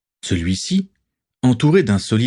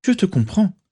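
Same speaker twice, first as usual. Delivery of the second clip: easing the mood; 11 semitones higher than usual. A narrator's reading. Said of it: "pour détendre l'atmosphère".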